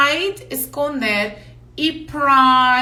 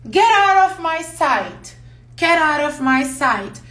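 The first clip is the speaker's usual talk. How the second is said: angry dismissal; 4 semitones higher than usual. Shown as a demonstration. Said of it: "eu posso falar uma coisa assim".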